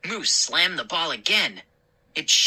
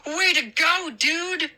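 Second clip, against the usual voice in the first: gleeful praise; 11 semitones higher than usual. A narrator's reading. Moose praising trick.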